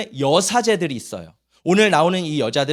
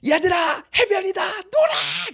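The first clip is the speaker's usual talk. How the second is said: put-on high, drawn-out holler to the kids; calling out; 13 semitones higher, slower than usual. Pastor telling the children to go play at the beach, excited calling out.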